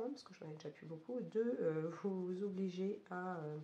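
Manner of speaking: hoarse, losing voice from a cold; croaky sick voice, mostly gone. Real, not acted. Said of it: "vous pouvez l'entendre avec une voix complètement cassée". (voix cassée et enrouée)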